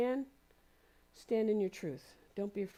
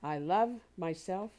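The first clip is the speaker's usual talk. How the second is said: "love" drawn out and emphasized; slow, leaning on "love"; stress on LOVE; 4 dB louder, slower than usual. Shown as a demonstration. Speaker reads the affirmation to listeners, stressing "love". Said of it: "with emphasis on specific words".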